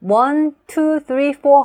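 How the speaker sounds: "one", "two", "three", "four" loud and high, kept on the beat; stressed count again. Shown as a demonstration. Teacher repeating the count before adding linking words. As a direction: keep the numbers on the clapped beat. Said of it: "다 붙여서 해볼게요".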